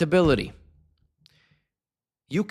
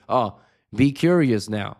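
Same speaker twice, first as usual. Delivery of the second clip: mock scripted curiosity; 5 dB louder, slower than usual. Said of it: "read fucking brackets saying".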